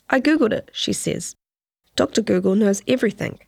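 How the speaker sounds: measured, deliberate reading of a written news story; news feature read. Acted. Reporter reading her investigation to podcast listeners, measured news read. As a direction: lay out the facts steadily, letting pauses land. Reads the investigative article aloud.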